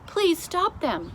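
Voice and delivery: slow, high plea; pleading. Acted. Sophie begs the queen, slow and high. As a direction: beg the queen slowly.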